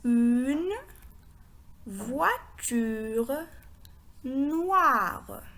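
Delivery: slow, spaced-out reading with long pauses; word by word. Shown as a demonstration. Teacher reads the phrase for learners, word by word. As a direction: read each word separately, drawing it out. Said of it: "Je répète".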